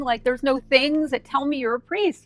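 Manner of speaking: giddy defensive ramble; flustered excited explanation. Retold or imitated. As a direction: justify yourself in a rush. Explaining her mistake to priest.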